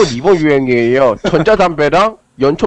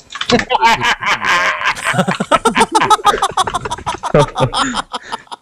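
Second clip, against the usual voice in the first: long high rising giggle; odd laugh; 7 semitones higher than usual. Real, not acted. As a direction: strange drawn-out laugh. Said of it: "어떻게 저렇게 웃는 거지". (이상한 웃음소리)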